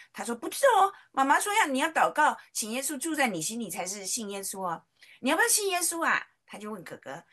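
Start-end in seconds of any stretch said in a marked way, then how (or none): 0.3-6.3 put-on higher, louder childlike insisting; bossy little sister. Little girl telling her brother what mom said, high insistent child voice. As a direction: lecture him like a know-it-all kid.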